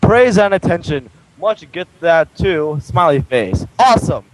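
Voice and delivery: flat robotic reading voice. Acted. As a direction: read it like a robot, monotone. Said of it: "I literally sounded like a robot reading that".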